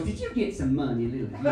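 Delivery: lightly put-on Southern American accent; mock Southern wife. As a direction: patronize in a mild Southern twang. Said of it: "she's suddenly from the South".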